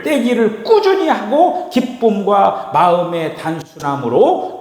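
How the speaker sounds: slow, emphatic Bible reading, rising high; drawn-out, high-pitched preacher's recitation; scripture reading. Acted. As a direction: read the verse out slowly to a congregation.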